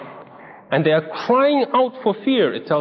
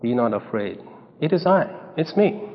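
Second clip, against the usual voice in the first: reassuring voice; 7 semitones lower, 3 dB quieter than usual. Acted. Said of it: "that reassuring voice".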